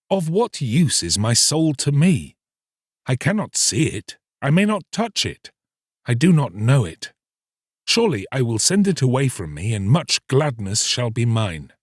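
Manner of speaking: put-on young fisherman musing. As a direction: argue yourself into it.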